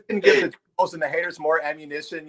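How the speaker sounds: talking through laughter; laughing. Real, not acted. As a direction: scold him while still laughing. Laughing while scolding Dan.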